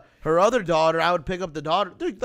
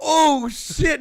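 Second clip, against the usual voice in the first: startled yelp; 6 semitones higher, 6 dB louder than usual. Retold or imitated. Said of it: "I was all".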